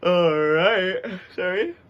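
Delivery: sudden loud high all right; startled outburst. Real, not acted. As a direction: jump in surprise, then apologize.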